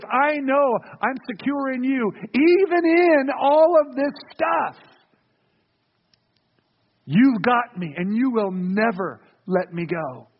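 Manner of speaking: slow, earnest prayer of trust. Retold or imitated. Preacher modelling how a sufferer prays to God, slow earnest trust. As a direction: lean into each promise slowly, sincerely.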